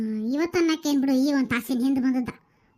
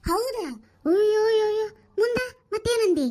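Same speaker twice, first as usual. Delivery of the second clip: shocked reaction; 6 semitones higher than usual. Acted. Sister-in-law hears the scandal, shocked. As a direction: gasp out the alarm, eager for more.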